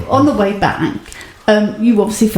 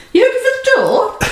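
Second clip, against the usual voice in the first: high, laughing mock question; laughing retold question. Teasing partner who missed the shop door, laughing. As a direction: pitch it way up through laughter. Laughing while retelling his search.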